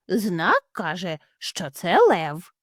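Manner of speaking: slow, deliberate reading; father hare spelling out the sign; slow know-it-all father. Acted. Father hare reads the sign aloud, slow and sure.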